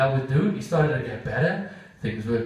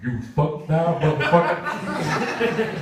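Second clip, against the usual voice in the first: menacing dog; much slower than usual. Acted. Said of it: "Kevin's dog is like".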